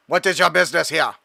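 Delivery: odd mechanical drone voice. Acted. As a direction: question them like a patrol drone. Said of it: "why my drone sounds like that".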